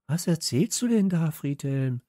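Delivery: high-pitched incredulous exclamation; calling out. A narrator's reading. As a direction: call him out on his nonsense. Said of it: "rief Steffi".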